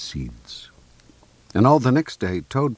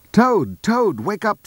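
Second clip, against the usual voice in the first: loud, high wake-up call; 14 semitones higher, 7 dB louder than usual. A narrator's reading. Frog waking sleeping Toad, loud high call. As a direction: call out high and urgently to rouse someone.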